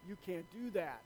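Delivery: lightly voiced old farmer, hushed; quiet, understated farmer's warning. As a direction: lay down the law softly as an old farmer. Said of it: "this old farmer, he says".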